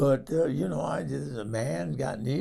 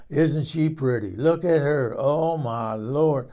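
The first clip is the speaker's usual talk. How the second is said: louder, doting over a cow; imitating Jerry; 6 dB louder than usual. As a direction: gush over the cow like a smitten farmer. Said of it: "he goes".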